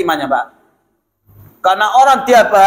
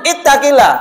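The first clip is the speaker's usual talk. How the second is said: imitating angry Arab; 4 semitones higher than usual. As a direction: draw out a mildly angry exclamation. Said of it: "Kalau lagi marah". (menirukan teguran marah, agak ditahan)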